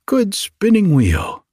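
high, urging fairy call; storybook cry for help, pitched well up. A narrator's reading. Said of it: "they cried".

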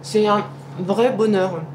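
talking with her mouth full. Real, not acted. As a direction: speak through a mouthful of cake. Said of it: "On ne doit pas parler la bouche pleine".

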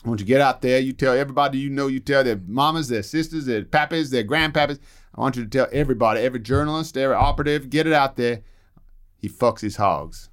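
a hint of a Southern Texan boss; playing Lyndon Johnson in a light Texan accent. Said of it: "Oh, I'm so glad there's an accent".

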